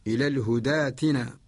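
الهدى ائتنا run together as hudaatina; long open aa replacing the hamza of ائتنا; Warsh reading. Shown as a demonstration. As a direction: recite الهدى ائتنا without a glottal stop. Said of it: "برواية الإمام ورش".

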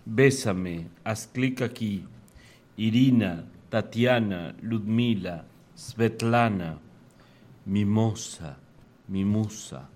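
measured poetry recital, pausing between lines; poem reading. Acted. Reads own poem aloud.

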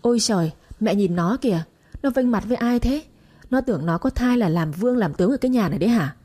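mild mock booming nag. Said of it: "cất lên oang oang".

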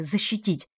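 ordinary delivery

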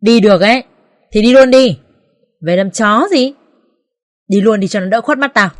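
sneering, scornful dismissal; contemptuous. Acted. Mother-in-law driving her son's wife away, sneering scornfully. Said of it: "khinh khỉnh và nói".

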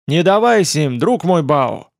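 urgent warning call; warning shout. Acted. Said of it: "предупреждающе крикнул Лань Дао Син".

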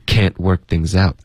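"Can't" falls like a Mandarin fourth tone; falling tone. Shown as a demonstration. Teacher fixing a student's intonation, falling tone. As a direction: drop the pitch through "Can't". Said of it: "导致一个四声的声调".

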